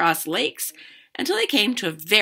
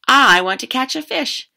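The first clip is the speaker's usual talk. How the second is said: put-on louder, higher eager girl; eager kid; 7 semitones higher, 8 dB louder than usual. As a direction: call out hopefully. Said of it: "and said".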